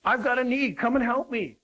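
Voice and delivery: high-pitched customer calling for help; needy client. Acted. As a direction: play a client walking in wanting attention. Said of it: "they're saying".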